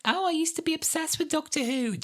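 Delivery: high, gushing coworker voice; nostalgic coworker. Retold or imitated. Coworker recalling old Doctor Who love, high gush. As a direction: gush it up high like a casual fan. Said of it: "And they're like".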